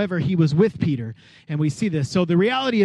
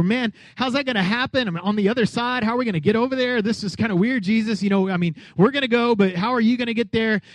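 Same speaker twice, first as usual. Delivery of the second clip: lightly voiced confused disciples; a hint of worried, questioning followers; mildly bewildered, pitched up; puzzled disciples; 3 semitones higher than usual.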